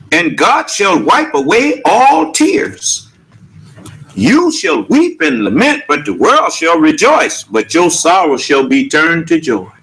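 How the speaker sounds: chant-like rise and fall on each phrase; scripture recitation. Acted. Preacher promising an end to tears, lilting scripture recitation.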